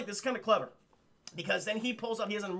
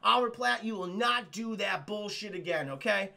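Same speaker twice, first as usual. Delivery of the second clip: mock incensed scolding; 4 dB louder than usual. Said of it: "he's incensed".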